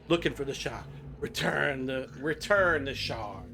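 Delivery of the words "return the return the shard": slow, lightly voiced greedy creature; understated greedy frost giant, slow; Gollum. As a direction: draw the words out with a hint of greed. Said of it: "this greedy voice, you know, kinda like, uh, Gollum".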